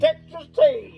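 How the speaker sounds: slow, high southern Texas tea; hillbilly voice. Pretend. Joking with his mate about striking oil, high slow Texas drawl.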